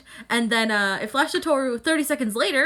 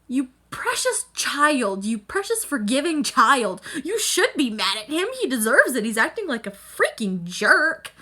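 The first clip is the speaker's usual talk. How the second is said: mock tender plea. Imitated plea to character.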